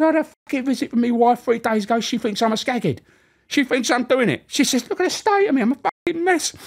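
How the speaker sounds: high, loud mock grievance; aggrieved prisoner. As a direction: moan about the wife, hammed up. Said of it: "He said".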